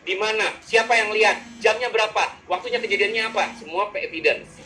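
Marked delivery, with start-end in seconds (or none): 0.0-3.6 string of pointed questions, pitched up; orang T menginterogasi. Acted. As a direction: fire questions like a perfectionist demanding evidence. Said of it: "Kalau orang T gimana?". (mencecar minta bukti, nada meninggi)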